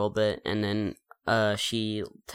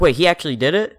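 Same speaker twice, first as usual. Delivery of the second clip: higher, louder disbelieving quote; incredulous; 7 semitones higher, 8 dB louder, much faster than usual. Retold or imitated. Retelling a show's big moment to co-host, incredulous.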